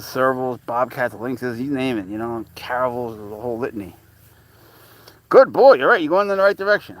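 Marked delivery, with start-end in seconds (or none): 5.3-7.0 high, loud cooing praise for the cat. Real, not acted. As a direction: squeal praise at the pet. Praising cat, pet talk.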